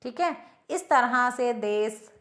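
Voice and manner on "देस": देश said with a plain s at the end, "des"; mispronounced देश. Shown as a demonstration. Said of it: "देश बोल देते हैं".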